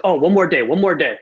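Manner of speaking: stalling engineer in a put-on Indian accent; mock Indian accent. Engineer stalls his client, mock Indian accent. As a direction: imitate an excuse with a lilting Indian accent. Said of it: "I did that word accent".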